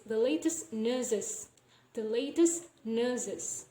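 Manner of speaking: slow "nurses" with no R sound; dropped R. Shown as a demonstration. Teacher demonstrating R deletion, "nurses" said with no R. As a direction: say "nurses" without pronouncing the R. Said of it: "don't pronounce the R sound here".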